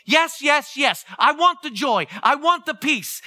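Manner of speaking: loud, high eager yes yes; excited yes. Retold or imitated. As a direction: grab at the promise with delight. Excited reaction to verse.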